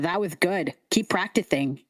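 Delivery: lightly voiced lisping little coach; lisping scarecrow kid. Kid coaches Lulu at skipping stones, lisping. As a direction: encourage with a lisp. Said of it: "The lisp".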